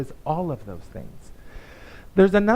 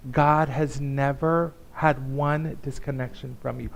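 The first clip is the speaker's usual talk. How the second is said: fervent preaching. Acted. Pastor assures the congregation, fervent preaching. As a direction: press the truth home to them.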